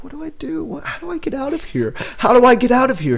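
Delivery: high, hurried mock panic; frantic high pleading to escape; hammed-up trapped player panic. Player panicking in the small room.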